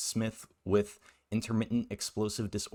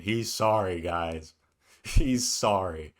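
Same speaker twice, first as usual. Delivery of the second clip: mocking; 3 dB louder, slower than usual. Mocks the creator's main argument.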